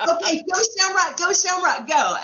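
loud, high hype chant; rousing send-off. Retold or imitated. Producer sending her out on stage, rousing shout. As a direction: cheer it out at full energy. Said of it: "come running out with all your energy".

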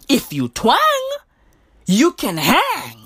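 slow, swooping "hang" to land the slogan; drawn-out slogan. Real, not acted. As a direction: stretch "twang" and "hang". Repeats slogan with drawn-out twang.

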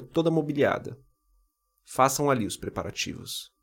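measured Bible reading; scripture reading. Acted. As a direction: read the passage aloud, steady and formal. Reads scripture aloud.

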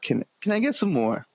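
high, meek English orphan plea; English accent. Retold or imitated. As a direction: beg meekly in an English accent. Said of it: "I can do a fucking English accent".

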